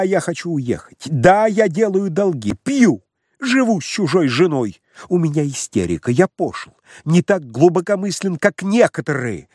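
громко, взвинченно, с надрывом; нервный срыв, почти плача; истеричный крик. Acted. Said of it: "крикнул Лаевский". (истерично кричит на Самойленко)

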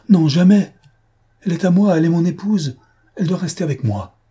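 cri aigu et fort, protestation désespérée; s'écrie fortement. Acted. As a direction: refuser de toutes ses forces, voix qui monte haut. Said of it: "Il s'écria fortement". (un mari malade qui s'écrie pour retenir son épouse)

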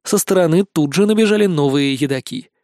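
ordinary delivery, nothing marked

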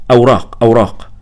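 insist, pointing up at the shelf; firm demand. A narrator's reading. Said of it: "وقلت في حزم بالإنجليزية". (بحزم وصوت أعلى)

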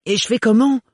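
high and loud exasperated roar; loud frustrated yell. Acted. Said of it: "rugit Renard".

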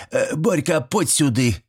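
high granny's call; granny calling the boy. Acted. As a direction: summon the boy back.

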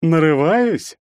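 high-pitched mock astonishment; feigned surprise. A narrator's reading. Stranger accused of seeking trouble, feigning surprise. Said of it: "наигранно выпучил от удивления глаза".

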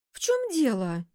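genuinely taken aback; sincerely surprised. A narrator's reading. Secretary surprised by boss, sincere. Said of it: "искренне изумилась та".

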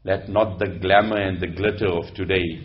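low, hushed, solemn warning; soft, low-pitched voice of stern counsel; grave woman admonisher. Acted. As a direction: admonish a ruler quietly and gravely. Plays woman admonishing Umar.

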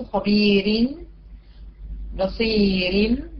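خبير and بصير slow, ending in thin "rin"; slow examples, thin R in خبير; light ra with tanween. Shown as a demonstration. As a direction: draw out بصير with a light final R. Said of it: "تعال نجيب كسرتين".

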